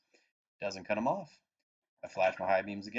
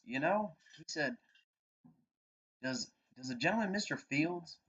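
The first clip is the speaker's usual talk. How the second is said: imitating the cop; 8 semitones higher than usual. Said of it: "he goes".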